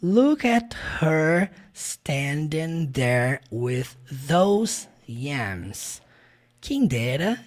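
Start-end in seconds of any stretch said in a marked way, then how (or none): 0.0-6.0 very slow, every sound of "Look at her standing there with those yams" spelled out; slow clear teacher model of "Look at her standing there"; careful pronunciation. Shown as a demonstration. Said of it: "Quem dera ele tivesse pronunciado assim". (pronúncia lenta e clara)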